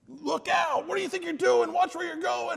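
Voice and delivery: high, loud alarmed shout; yelling at son. Retold or imitated. Father yelling at his reckless son, high and loud. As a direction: yell a sharp warning across the park. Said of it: "And I'm yelling at him".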